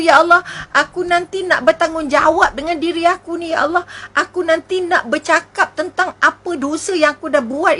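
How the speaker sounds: fervent sermon, each line closing on ya Allah; a preacher's rising appeal; impassioned preaching. Acted. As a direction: plead with the congregation urgently.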